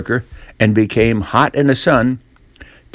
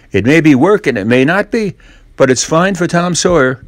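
put-on higher, airy boyish boast; smug Tom; 6 semitones higher than usual. Tom pretending fence painting is fun, smug voice. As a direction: act proud of the chore.

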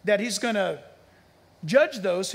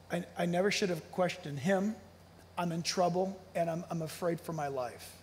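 softer, hushed, scared confession; fearful hush; 3 semitones lower, 6 dB quieter than usual. Retold or imitated. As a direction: voice a man terrified of his own words. Frightened man's words retold.

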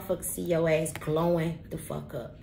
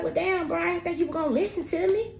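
sheepish friend; 8 semitones higher than usual. Retold or imitated. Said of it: "they were like".

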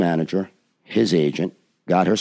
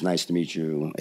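soft, lower-pitched imitation of a kind greeting; kindly greeting; 4 semitones lower, 7 dB quieter than usual. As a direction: greet gently, with understated warmth. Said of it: "very kindly says".

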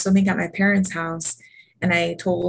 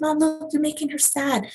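lightly voiced pleading daughter; 8 semitones higher than usual. Sophia pleading with mom.

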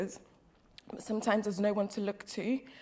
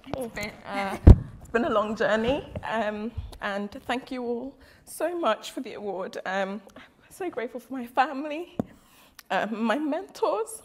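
blubbering; 4 dB louder than usual. Real, not acted. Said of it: "I'm so sorry I'm crying".

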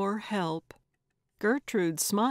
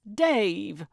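sudden recognition, falling pitch; startled exclamation; 4 dB louder than usual. A narrator's reading. Gertrude recognizes Dave on the phone, startled. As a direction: exclaim the name in surprise.

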